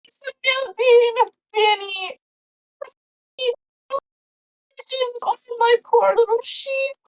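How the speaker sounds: put-on high, panicked old farmer crying over his sheep; frantic farmer. Farmer runs up to the party, high and panicked. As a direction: wail it like a farmer who lost his flock. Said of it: "he's like".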